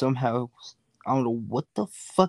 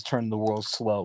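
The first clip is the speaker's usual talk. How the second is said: 1 slow motto; 3 semitones lower, 4 dB quieter, slower than usual. Shown as a demonstration. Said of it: "My motto is".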